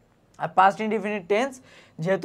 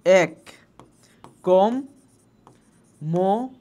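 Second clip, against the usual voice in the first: এক কম মোড এশন broken into syllables with a pause after each; much slower than usual. Shown as a demonstration. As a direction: read এক, কম, মোড, এশন one syllable at a time. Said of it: "তারপর তুমি লেখলা".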